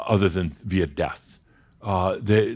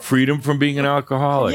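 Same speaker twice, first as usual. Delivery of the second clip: louder, with laughter breaking in; amused joking; 5 semitones higher, 4 dB louder than usual. Real, not acted. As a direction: say it through a laugh, as a group joke. Joking with the group about drinking.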